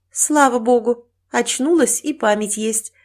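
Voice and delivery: nurse's sigh of relief; relieved. Acted. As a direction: speak with relief to a waking patient. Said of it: "с облегчением выдохнула медсестра".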